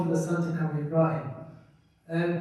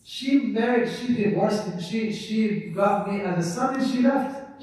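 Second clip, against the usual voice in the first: pleading son; 3 semitones higher than usual. Retold or imitated. Son protesting his case to Umar.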